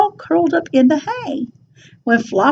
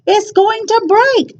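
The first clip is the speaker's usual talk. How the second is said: cried; 8 semitones higher than usual. A narrator's reading. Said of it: "she cried".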